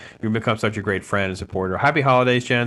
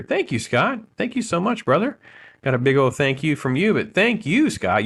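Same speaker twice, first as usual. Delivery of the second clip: excited thanks; 6 semitones higher than usual. Real, not acted.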